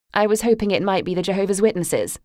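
sugary, mildly mocking tone; sweet on top, barbed underneath; sweetly. Mother teasing her daughter on the doorstep, sugary sarcasm. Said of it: "she said sweetly".

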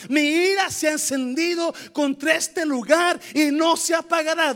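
wrathful shout. Acted. Reading God's wrath.

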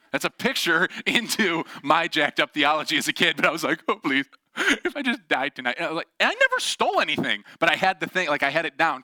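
laughing while he talks. Real, not acted. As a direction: laugh through the words. Laughing at his childhood theology.

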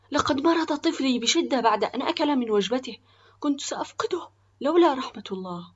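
high, loud, upset lament; sad. A narrator's reading. Father tells of his sick child, sad. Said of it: "علق آخر بحزن".

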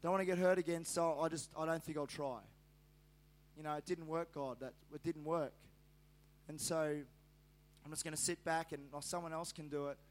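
subdued, giving-up voice, lightly acted; discouraged. Preacher voices a hurt believer giving up, discouraged. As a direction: sink into quiet resignation.

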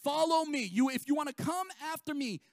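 lightly voicing Jesus calling disciples. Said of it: "He says this".

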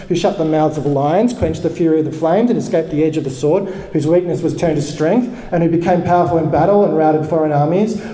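impassioned fast rant. Acted. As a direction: read it like a fiery rant. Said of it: "I'll read it like a rant".

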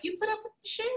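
soft, high incredulous aside; mock disbelief. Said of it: "I was like".

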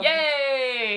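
loud high cheer. Real, not acted. Cheering the idea.

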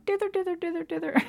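high dithering turkey warble; turkey call impression. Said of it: "it sounds like she's going".

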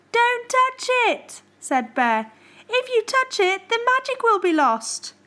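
gently urgent warning; bear's warning. Acted. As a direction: hold him back with worry. Bear warns Squirrel.

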